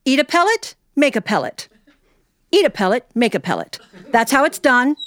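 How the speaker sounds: high, bright-eyed teacher marveling. Retold or imitated. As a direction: show the kids the rabbit with a high wonder voice. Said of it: "she'd go".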